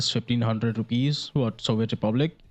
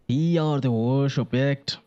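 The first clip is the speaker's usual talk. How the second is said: failed Russian accent; 3 semitones higher than usual. Shown as a demonstration. Gamer trying out a Russian accent, mock Russian accent. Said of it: "that's not the accent".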